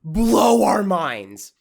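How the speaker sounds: oversell it like a trailer; mock hype. Mocking a woman's video, hammed-up hype.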